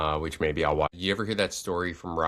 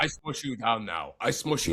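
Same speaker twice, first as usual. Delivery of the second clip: giant voice; 6 semitones higher than usual. Retold or imitated. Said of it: "Wemby's just like".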